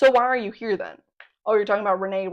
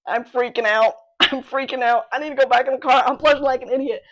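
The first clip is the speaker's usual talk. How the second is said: louder, raised, mildly panicky rush of complaint; flustered panic; 3 semitones higher, 5 dB louder than usual. Retold or imitated. Retelling panic to mom at the library, flustered panic. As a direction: act out a light comic freak-out.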